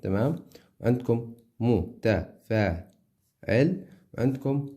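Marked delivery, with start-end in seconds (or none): 0.8-2.9 slow, drawn-out syllables; teacher dragging out the meter; stretched syllables. Shown as a demonstration. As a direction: spell out each syllable slowly.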